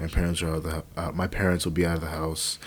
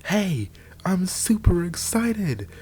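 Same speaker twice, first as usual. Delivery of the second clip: high, excited whisper; quiet enthusiasm; 13 semitones higher, much slower than usual. Shown as a demonstration. Showing viewers hushed late-night excitement, high whisper. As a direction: whisper it brightly, bursting but hushed so nobody wakes. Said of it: "It's possible to have quiet enthusiasm".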